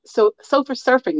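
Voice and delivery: put-on "sofa surfing" with a childish lisp. Shown as a demonstration. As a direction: say "sofa surfing" like a lisping kid. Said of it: "That's hard to say without sounding like a Shindy Brady".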